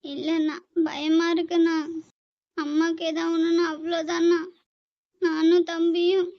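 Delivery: hammed-up tearful voice, slowing at the end; fake crying. Sister faking tears for her brother, hammed-up crying. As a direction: fake a sob to win sympathy. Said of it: "Pasamalar Sivaji கணேசனையே மிஞ்சிட்டீங்கடா".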